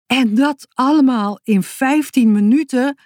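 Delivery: put-on a boy crying out, startled by the plan. A narrator's reading. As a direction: blurt it out in shock. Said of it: "riep Boutje geschrokken".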